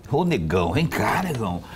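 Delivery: chamado mais grave, com melodia ondulada; demonstração de entonação. Shown as a demonstration. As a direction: chamar um conhecido para perto, sem agudo. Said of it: "Depende da entonação". ("negão" em tom baixo, de chamado)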